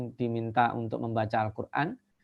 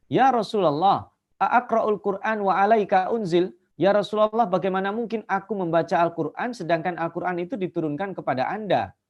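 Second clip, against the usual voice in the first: nervous; 5 semitones higher than usual. Retold or imitated. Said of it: "Ibnu Mas'ud sampai grogi".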